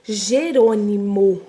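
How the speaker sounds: Jerônimo said slowly, the J clear; Jerônimo drawn out for the class; slow clear word. Shown as a demonstration. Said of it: "Então, ó". (Jerônimo dito devagar)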